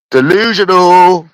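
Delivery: drawn-out and high, mocking disbelief; scoffing disbelief. Real, not acted. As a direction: stretch it high like she's lost the plot. Scoffing at girlfriend's money claims.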